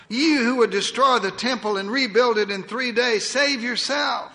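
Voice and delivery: crowd jeering. Acted. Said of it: "they cried".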